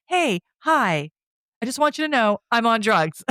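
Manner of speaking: high-pitched, playful mock giddiness; giddy and goofy. Michelle runs up to him on drugs, imitated giddy and goofy. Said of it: "all giddy and goofy".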